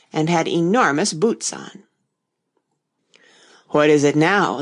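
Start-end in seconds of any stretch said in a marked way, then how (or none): 3.7-4.6 deep hoarse whisper. Acted. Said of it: "in a deep, hoarse whisper".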